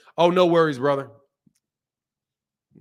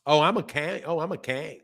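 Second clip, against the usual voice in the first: mock Southern "I'm a Kang"; lightly mocked Southern accent; white Southern accent. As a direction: imitate a white Southern twang. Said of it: "that's a white accent".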